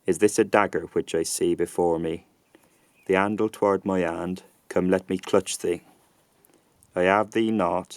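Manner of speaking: early 1600s Southern English accent; reconstructed Shakespearean accent. Shown as a demonstration. Lecturer reads the same Shakespeare passage for comparison, early 1600s English accent. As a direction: read it in original-pronunciation Shakespearean English. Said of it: "reconstructed early sixteen hundreds Southern English accent".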